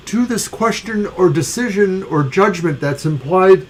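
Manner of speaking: speaking through a small burp; slow words around a burp; holding back a burp. Real, not acted. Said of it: "I'm burping a little bit".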